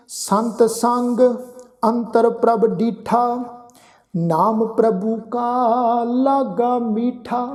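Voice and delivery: slow, measured recitation of sacred verse; slow scripture recitation. Acted. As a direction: lay each phrase down slowly with pauses. Recites gurbani verse slowly.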